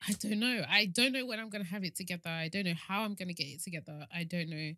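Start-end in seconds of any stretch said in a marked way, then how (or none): 0.1-3.6 louder, higher and fast, near tears; distressed outburst. Real, not acted. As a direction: blurt it out in frustration. Emotional outburst about turning thirty.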